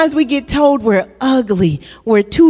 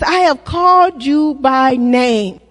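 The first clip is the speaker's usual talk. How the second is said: proclaiming shout; 3 semitones lower than usual. Real, not acted. Preacher proclaiming scripture.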